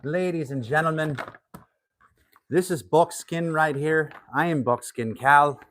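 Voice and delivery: a hint of a showman introducing himself; showman persona. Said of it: "I'll talk in my American voice".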